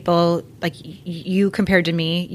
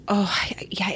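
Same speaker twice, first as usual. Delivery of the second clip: whisper; 5 dB quieter, slower than usual. Retold or imitated. Quoting a worn-out newborn-stage parent.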